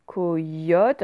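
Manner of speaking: "coyote" split slowly into co-yote; slow, questioning "coyote" with clear y; word sounded out. Shown as a demonstration. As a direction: try out "coyote" syllable by syllable.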